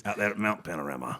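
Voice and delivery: gruff Aussie bloke voice; Aussie accent, matter-of-fact. Pretend. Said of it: "if I do an Aussie accent".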